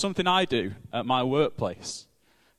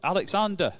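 raised, angry shout of the name; cry of rage; 9 semitones higher, 4 dB louder than usual. A narrator's reading. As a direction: fling the name back in rage. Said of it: "with a cry of rage".

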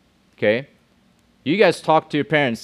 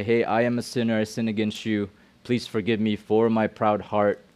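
vulnerable confession; 2 semitones lower than usual. Shown as a demonstration. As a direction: confess gently, owning the sin. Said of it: "vulnerable to say".

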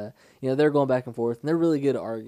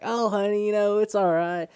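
higher, louder sweet reassurance; mock sweet customer service voice, higher and louder; kind motherly agent; 5 semitones higher, 4 dB louder than usual. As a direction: play the kind phone lady, bright and comforting. Quoting the kind phone agent.

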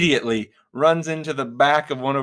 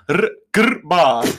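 mock growl; 5 semitones higher, 6 dB louder, slower than usual. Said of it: "They go".

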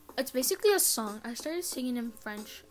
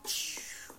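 mock shush; 7 dB quieter than usual. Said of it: "I got my gum and went".

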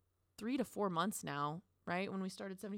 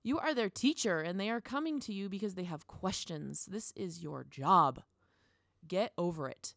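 scolding herself; 4 dB louder than usual. Retold or imitated. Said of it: "be like".

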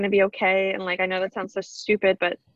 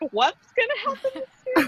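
mock wonder. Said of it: "So I'm like".

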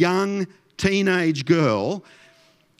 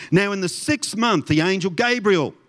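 dramatic Bible storytelling voice; story voice; 3 semitones higher than usual. Shown as a demonstration. Pastor reading the Christmas story to the congregation, in a story voice. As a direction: read scripture as a Christmas tale. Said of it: "read it in my story voice".

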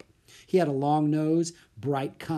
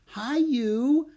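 high, sing-song hello to a little creature; friendly greeting; 12 semitones higher, 4 dB louder than usual. Acted. Annie greeting a caged bird, high and friendly.

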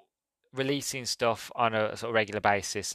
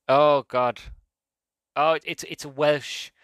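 slower, higher Welsh lilt on "oh, it's, it's a Welsh"; Welsh accent; 5 semitones higher, 5 dB louder, slower than usual. Pretend. Podcaster slipping into a Welsh accent naming a podcast, playful Welsh lilt. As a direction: slip into a sing-song Welsh accent, drawing it out. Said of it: "I just did a Welsh accent".

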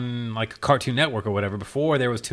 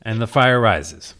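Bane voice quote; 4 dB louder, slower than usual. Acted. Quoting Bane, slow and low.

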